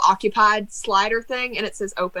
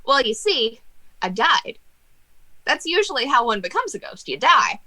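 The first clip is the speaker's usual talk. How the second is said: lightly voiced ghost jester; 4 semitones higher than usual. Ghost jester answers the cat.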